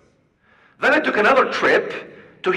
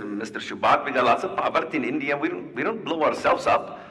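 lower, quick Indian accent, lightly imitated; 4 semitones lower than usual. Student from India answering about bombing, lower Indian accent. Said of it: "You know that Indian accent?".

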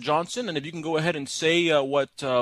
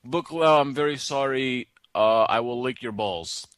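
slow dictation; 3 semitones lower, slower than usual. Retold or imitated. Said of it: "the other one, which was".

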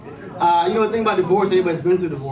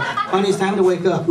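gently coaxing, a bit higher; sweet wake-up call; 4 semitones higher, 4 dB louder than usual. Retold or imitated. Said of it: "like waking up a little Sasquatch".

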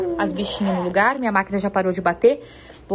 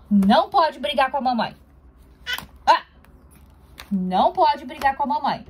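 playful mock scolding. Mother mock-scolds baby.

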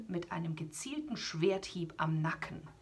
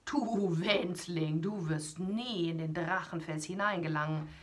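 a lightly voiced giant looming over a small hero; mocking giant. Giant Kuparan taunting Siegfried, lightly voiced and mocking.

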